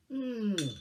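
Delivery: high, falling savouring hum; appreciative mm. Real, not acted. Poet after a drink of water, appreciative hum. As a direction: hum with relish after a sip.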